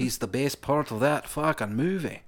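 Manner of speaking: put-on Geordie drifting off course; comically unstable regional accent; wandering accent. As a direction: let a bad Geordie accent slide somewhere else. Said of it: "start one place and I like to end".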